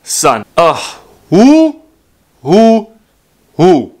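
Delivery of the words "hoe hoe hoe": exasperated shout. Real, not acted. Exasperated at the scam.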